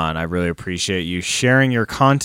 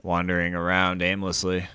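zombie moan. Pretend. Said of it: "That was my zombie impression".

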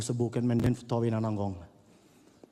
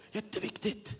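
whispered emphasis; 8 semitones higher, 6 dB quieter than usual. Real, not acted. Preacher whispering to the congregation that this matters. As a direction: lean in and whisper it.

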